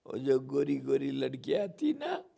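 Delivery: breaking into high laughter mid-line; laughing confession. Acted. Kanha confesses his wish to Yashoda, laughing high. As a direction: giggle out the cheeky secret.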